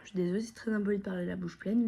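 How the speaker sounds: fast whispered apology, mouth full; hurried whisper with food in the mouth. Real, not acted.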